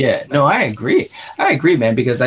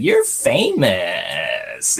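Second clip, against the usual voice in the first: drawn-out, very slow mock quote; slow quoted line; 2 semitones lower, much slower than usual. Quoting the hippie character's line, very slow and drawn out. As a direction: stretch it out lazily like the hippie character. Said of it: "that scene where she's like".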